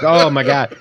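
laughing oh my god. Retold or imitated. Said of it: "She's like".

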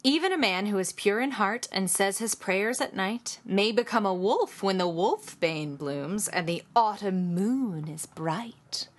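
spooky poem recitation fading to a hush; recited poem. Pretend. Reciting the werewolf poem for cohost, dramatic and hushed. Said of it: "Shall I?".

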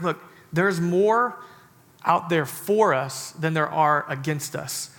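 slow, steady reassurance; calm reassurance. Acted. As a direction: take your time, settle his fear. Elisha calmly reassuring servant.

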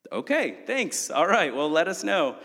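high-pitched, over-polite mock thanks; put-on politeness. Customer answers the grim mechanic's bad news, high put-on politeness. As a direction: pitch it way up, acting politely unbothered.

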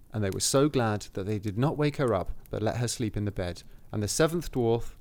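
measured fairy-tale reading; story narration. A narrator's reading. Reading the cottage description to a co-host, story narration. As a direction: read it aloud as a storybook.

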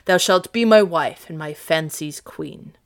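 mild, firm gladness; glad declaration. Acted. Orsino to his bride-to-be, glad declaration. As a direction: declare it gladly, in a steady voice. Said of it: "Orsino cried in gladness".

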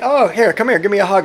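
lightly voiced sneaky sweetness; fake sweet lure. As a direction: coax her in, falsely friendly. Coworker luring sister, voiced.

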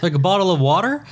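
puzzled radio hosts. Retold or imitated. Retold hosts check with the caller, quick mock question. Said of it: "they're like".

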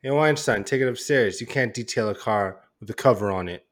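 growling movie-line voice; bad acting. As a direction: growl it out in character. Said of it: "You started growling, huh?".

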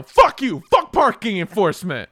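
yelled insult. Retold or imitated. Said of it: "I'll just yell".

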